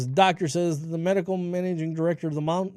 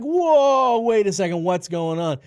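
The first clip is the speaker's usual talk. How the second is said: alarmed dad; 6 dB louder than usual. Retold or imitated. Dad walking in on daughter's cinnamon challenge, retold alarm. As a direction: halt them with a retold, startled outburst.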